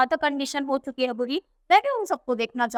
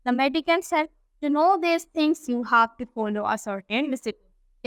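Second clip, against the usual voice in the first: reads the English text slowly and carefully; unhurried storybook reading; slow story reading; much slower than usual. A narrator's reading. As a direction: read it out word by word for the class. Slow English read-aloud of story.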